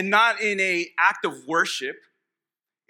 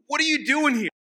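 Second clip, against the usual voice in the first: demon confronting Jesus; 5 semitones higher than usual. Acted. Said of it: "what the demon was saying to Jesus".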